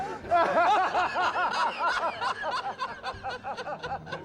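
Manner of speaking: long, high, quiet wheezing laugh; helpless laughter. Real, not acted. Critic losing it at the movie's silly line, laughing. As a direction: crack up helplessly, pitched high and soft.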